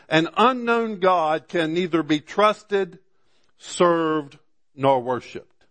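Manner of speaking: measured preacher cadence, each word laid out; preacher reading a quote with weight; slow sermon reading. Acted. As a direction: read it from the pulpit, slowly.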